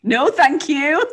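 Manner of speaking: high, loud, drawn-out prim no; slow mock-polite refusal; firm refusal. Refusing husband's offer to use hung, prim.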